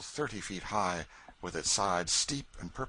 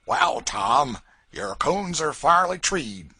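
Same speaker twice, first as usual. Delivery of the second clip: much louder and higher, slow gloating; a crude hunter crowing over his catch; rowdy posse man; 7 semitones higher, 10 dB louder, slower than usual. A narrator's reading. A rowdy to Tom below the rocks, gloating.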